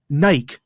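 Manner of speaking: Nike as one syllable, rhyming with bike; imitated variant pronunciation. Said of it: "Interesting choice in pronunciation".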